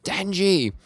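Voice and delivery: high imitated cry of a name; calling out. Nayata calling to Denji, high mock calling-out. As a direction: call the name in a put-on high voice.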